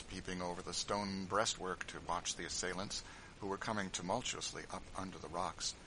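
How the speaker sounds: ordinary talk, nothing marked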